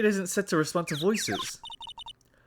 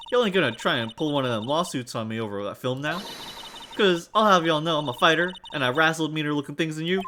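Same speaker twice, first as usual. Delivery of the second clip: put-on Southern US accent. Suspicious local warning a lawyer, Southern accent. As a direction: warn them off in Southern dialect. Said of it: "I know the accent".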